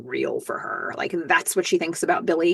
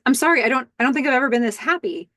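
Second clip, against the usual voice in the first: happy; 6 semitones higher, faster than usual. Retold or imitated. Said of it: "He's so happy".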